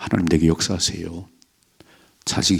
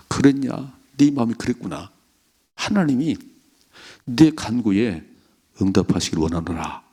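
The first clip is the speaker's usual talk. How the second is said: gentle priest's blessing; 3 semitones higher than usual. Retold or imitated. Priest gently blessing Hannah retold.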